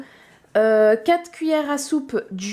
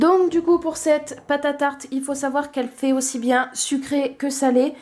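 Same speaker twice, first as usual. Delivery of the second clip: a little hoarse, real. Real, not acted. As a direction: speak with a slightly rough throat. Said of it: "j'ai la voix enrouée".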